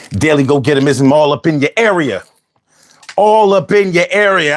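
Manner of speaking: fast, punchy channel intro; announcer intro. Acted. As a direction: announce the show like a hype host. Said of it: "say it good for you, no accent, and make it clear".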